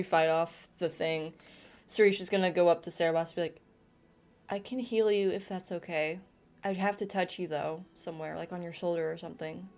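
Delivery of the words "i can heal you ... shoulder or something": gentle. Acted. Sarisha speaks gently.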